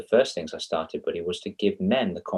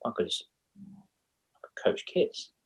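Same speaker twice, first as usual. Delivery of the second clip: slow breathy whisper, higher; whispered thought; 5 semitones higher, 7 dB quieter, slower than usual. Retold or imitated. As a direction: murmur the idea to yourself slowly. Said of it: "when I just thought".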